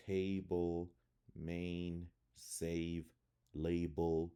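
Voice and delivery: word list with A as "ay" in "table", "case"; long A sound. Shown as a demonstration. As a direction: clear "ay" in "Update", "create", "gateway". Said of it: "It usually makes the long A sound".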